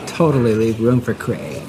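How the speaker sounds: mock the barista's affectation; mock affected voice. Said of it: "Why are you talking like that?".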